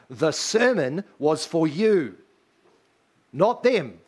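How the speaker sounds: pastor's gentle rebuke; pointed reply. Retold or imitated. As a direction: stress on "you" and "them". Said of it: "my response is always the same".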